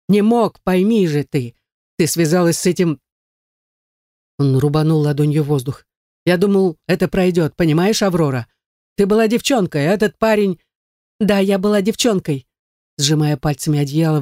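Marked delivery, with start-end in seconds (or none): 0.1-10.6 barking father. Acted. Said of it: "гаркнул он". 11.2-12.5 cry out. Acted. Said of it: "выкрикнула я".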